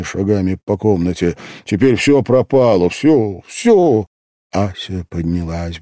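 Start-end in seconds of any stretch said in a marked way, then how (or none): 1.6-4.0 higher, louder, rising to the last word; agitated despair. A narrator's reading. Man telling the girl all is lost, agitated despair. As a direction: cry out that it is over, louder each time. Acted agitated reproach in narrated story.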